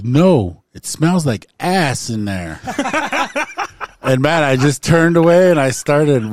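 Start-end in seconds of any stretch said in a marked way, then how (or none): 0.0-2.6 loud drawn-out mock refusal; lightly voiced reluctant dude. Dude refusing the ladies at the bathroom, mock protest. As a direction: imitate his protest, slowing into a laugh. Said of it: "then the dude, like, says".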